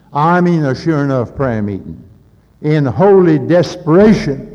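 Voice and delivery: high and loud, quick and urgent; fervent preaching. Acted. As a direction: push the climax home, ringing out. Preaching climax with dialogue.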